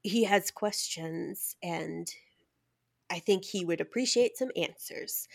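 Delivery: lightly put-on announcing voice; put-on presenter voice. Host introducing Manuel's questions, lightly put-on voice. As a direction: introduce the episode in a mildly affected voice. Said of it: "I don't know why I was doing that voice".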